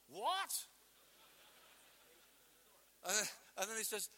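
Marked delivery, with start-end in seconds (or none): 0.1-0.7 high, loud startled What; startled cry. Acted. Peter hears Jesus is leaving, high startled cry. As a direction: Peter can't believe his ears. Peter voiced reacting in shock.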